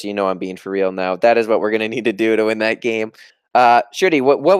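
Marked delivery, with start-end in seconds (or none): 0.0-3.1 deep firm voice; serious voice. Shown as a demonstration. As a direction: lower and dead serious. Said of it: "this is my serious voice".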